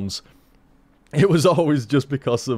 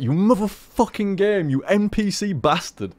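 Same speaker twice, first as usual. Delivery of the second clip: mock game anger; 6 semitones higher than usual.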